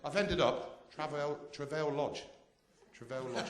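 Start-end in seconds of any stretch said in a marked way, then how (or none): 1.5-2.2 "Travail" said tra-VAIL, stressed on the end; mock-posh pronunciation. Shown as a demonstration. Comic naming his budget hotel, "Travail" in mock-posh French style. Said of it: "it's a posh one". 2.9-3.4 softer "Travail", said tra-VAIL; mock-posh pronunciation. Shown as a demonstration. Comic insisting on his hotel, "Travail" in mock-posh French style. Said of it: "it's a posh one".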